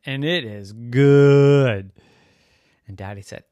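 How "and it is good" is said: savouring Lila. Acted.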